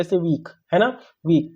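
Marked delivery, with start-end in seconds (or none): 1.2-1.5 वीक in one unbroken beat; single-beat वीक; said without stopping. Shown as a demonstration. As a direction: say वीक straight through as one syllable. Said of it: "कहीं नहीं रुकना".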